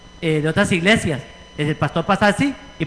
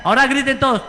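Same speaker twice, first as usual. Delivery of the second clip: commanding call; 5 semitones higher, faster than usual. Retold or imitated. Preacher voicing Joshua's order to the people, a mock commanding call. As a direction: call out the order to shout like a leader. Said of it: "cuando les dijera".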